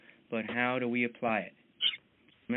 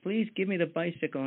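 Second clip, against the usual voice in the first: louder, higher begging shout to God; pleading at the top of his lungs, hammed up; kid's mock shouted prayer; 5 semitones higher, 3 dB louder than usual. Billy shouting his prayer up to God, mock yell. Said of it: "Billy shouting".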